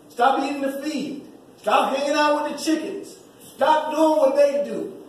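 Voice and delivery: rousing send-off to the graduates; preaching. Acted. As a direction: build the call to fly.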